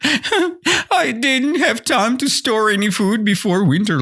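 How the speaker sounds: high, tearful whine; hammed-up crying complaint; whining. Shown as a demonstration. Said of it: "you know what is whining? It's like".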